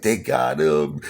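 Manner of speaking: mild mock wail, held back; imitated crying. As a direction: begin imitating a distraught mother. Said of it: "hysterical crying".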